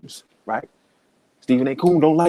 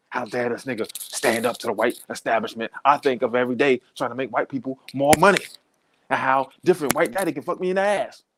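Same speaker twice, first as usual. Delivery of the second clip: a mocking take on an indignant TV pundit, lightly voiced; lightly voiced mock pundit outrage; Stephen A. angry. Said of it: "he get all mad and angry".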